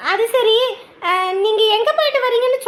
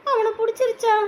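whimpering panic. Acted.

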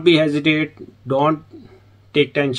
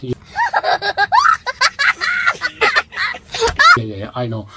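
demo eager agreeing; much slower than usual. Shown as a demonstration. Vlogger demonstrates answering a foreigner with yeahs, one shouted. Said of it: "और आपने कहना".

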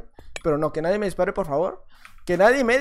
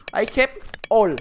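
mock English; slower than usual. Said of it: "el cubo sabe hablar inglés".

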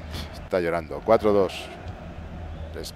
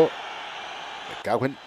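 muttered curse; 3 semitones higher, 8 dB quieter, much slower than usual. Real, not acted. Frustrated at a sudden substitution.

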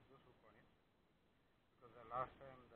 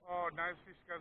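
excited; 4 semitones higher, 14 dB louder, slower than usual. Real, not acted. Hooking a big fish.

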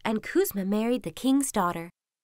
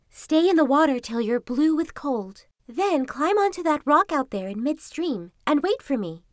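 fox voice; 5 semitones higher than usual. Acted. Fox instructs Kuzma.

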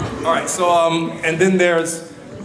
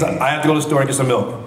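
Colton Haynes impression; faster than usual. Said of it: "So, Colton Haynes".

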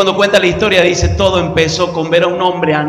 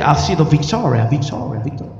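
gringo preacher voice; 4 semitones lower than usual. Retold or imitated. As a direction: let victoria echo away. Gringo's catchphrase. (gringo que repite victoria, cada vez más bajo)

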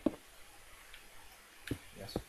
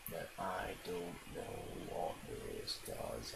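dying Dalek; 4 semitones lower, 5 dB quieter, much slower than usual. Real, not acted. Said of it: "I kind of sound like a Dalek that's almost dying".

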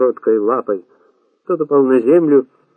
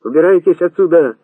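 raised, higher-pitched cry; shouting; 6 semitones higher, 5 dB louder than usual. A narrator's reading. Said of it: "закричал ещё раз Касым". (крик, повышенный голос)

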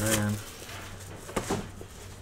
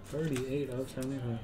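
much softer, to himself; quiet repeat; 11 dB quieter, faster than usual. Real, not acted. Card breaker repeating the serial number, quiet aside. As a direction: drop right down to an aside.

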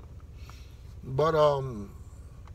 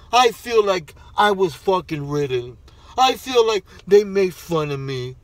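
sneering, louder parody of self-pity; mock whining complaint; 5 dB louder than usual. Mocking the champion's complaints with a loud sneering whine. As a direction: mimic a crybaby airing grievances.

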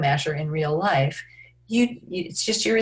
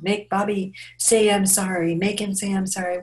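higher voice, imitating an upset kid; lightly acted child's complaint; 3 semitones higher than usual. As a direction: demand it like a hurt child. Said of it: "they're crying and crying".

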